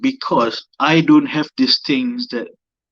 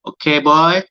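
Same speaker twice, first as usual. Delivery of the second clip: put-on high, loud auntie prodding a boy; 5 semitones higher, 4 dB louder than usual. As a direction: coax him like a nagging auntie. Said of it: "That's my auntie voice".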